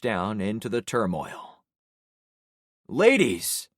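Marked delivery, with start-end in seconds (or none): 2.9-3.7 loud commanding bark. A narrator's reading. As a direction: snap them to attention. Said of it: "I barked".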